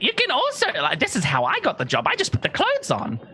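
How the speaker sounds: high, cheerful aside; sharing a secret; proud Belbic. Acted. Belbic explaining how he got the job. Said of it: "he's like".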